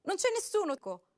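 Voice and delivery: frightened woman insisting; pleading denial. A narrator's reading. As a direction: beg him to believe her.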